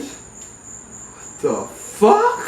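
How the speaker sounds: slow, breathless whispered disbelief; stunned whisper. Retold or imitated. Stoned teller whispering at the smiling tree, stunned. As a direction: whisper it, staring at a grinning tree.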